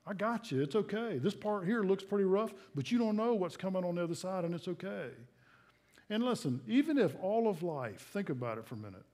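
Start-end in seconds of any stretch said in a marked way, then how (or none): 0.0-5.1 calm them like a caring father; gentle reassurance. Acted. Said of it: "whispers in our heart and says".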